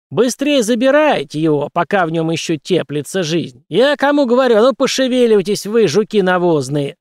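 loud, high bellowing orders; angry shout. Acted. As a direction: bark at the beggars, furious. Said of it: "закричал Харибин". (гневный крик)

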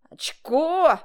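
high, loud delighted cry; excited admiring shout; admiring exclamation. A narrator's reading. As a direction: marvel out loud. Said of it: "восхищённо сказал".

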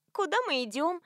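high, sweet innocent question; sweetly. A narrator's reading. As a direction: ask it sugary-sweet. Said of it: "мило поинтересовалась".

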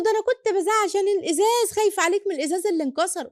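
imitating tearful mother. Crying mother explains herself.

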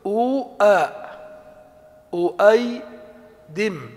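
أؤيدم drawn out, each sound separated; slow demonstration. Shown as a demonstration. Teacher slowly builds the diminutive for students. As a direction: slowly build up أؤيدم: u, then the hamza, then -aydim. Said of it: "فنقول".

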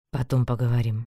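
lightly voiced young man; Einar voice. A narrator's reading. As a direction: read him low and offhand. Einar's reply voiced low.

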